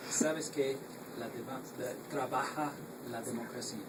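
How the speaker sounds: Spanish with a strong American accent; halting learner's Spanish, American accent. Real, not acted. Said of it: "sorry for my terrible Spanish".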